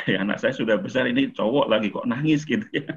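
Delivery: laughing lightly through the words; a fond, amused chuckle as you speak; chuckling. Real, not acted. Father to seminar audience, chuckling about his grown son crying.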